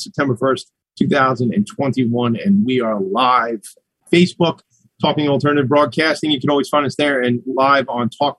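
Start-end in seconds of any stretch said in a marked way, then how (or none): 4.1-4.6 a nervous crack in the voice. Real, not acted. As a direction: voice cracks on the word. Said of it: "I heard my voice crack a little".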